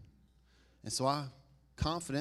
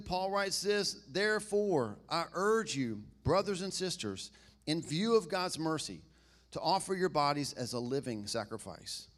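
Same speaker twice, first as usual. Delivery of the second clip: scripture reading. Acted. Preacher reads Paul's letter to the congregation, measured scripture reading. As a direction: read the verse out to the room, phrase by phrase.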